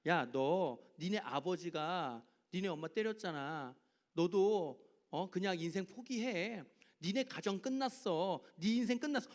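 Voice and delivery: 낮고 느리게 속삭이듯 꼬드기는 마귀; 절망을 심는 마귀처럼 천천히; 유혹하는 마귀. Retold or imitated. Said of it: "마귀가 계속 얘기하는 거야". (낮고 느린 마귀의 유혹하는 목소리)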